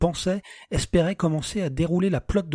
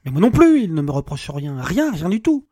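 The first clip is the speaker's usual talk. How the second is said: bitter outburst; 7 dB louder than usual. Acted. Alex bitterly echoing his wife.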